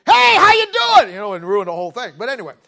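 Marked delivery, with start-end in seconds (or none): 0.1-1.1 shouted high and slow, ruining the shot; mock loud greeting. Preacher mock-shouting at a golfer mid-swing. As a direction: yell out to spoil the golfer's putt. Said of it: "I say".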